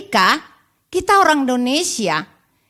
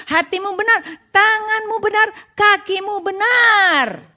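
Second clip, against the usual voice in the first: preaching climax; 9 semitones higher than usual. Real, not acted. Preacher driving home a list to the congregation, rising to a climax. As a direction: build the list to a high, ringing finish.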